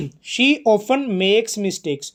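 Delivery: very slow, word by word; deliberate classroom dictation pace; slow example reading. Shown as a demonstration. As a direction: read it out slowly so students follow. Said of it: "teacher reads example sentence aloud".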